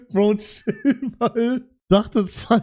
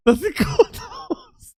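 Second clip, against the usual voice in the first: squeaky high, slow, sweet repeat; mock high voice; 12 semitones higher, slower than usual. Streamer mocking a viewer's compliment in a high voice. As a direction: echo it up high, drawn out.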